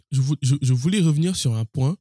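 numb mouth after the dentist. Real, not acted. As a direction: talk with a numb, swollen mouth. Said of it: "si ma voix est bizarre".

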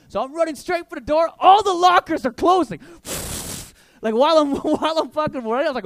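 ordinary talk, nothing marked

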